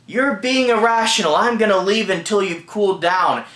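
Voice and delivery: mildly acted marital outburst; worked up. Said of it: "the husband gets worked up".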